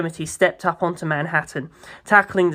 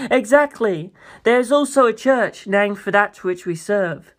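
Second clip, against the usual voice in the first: lightly voiced proud president. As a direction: talk down grandly like a president. President voice continues.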